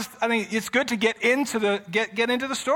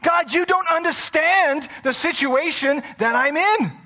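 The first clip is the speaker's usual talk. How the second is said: protesting; 9 semitones higher, 4 dB louder than usual. Retold or imitated. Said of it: "'Cause you're thinking".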